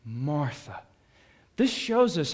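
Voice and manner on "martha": tender doubled name. Retold or imitated. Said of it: "Jesus says".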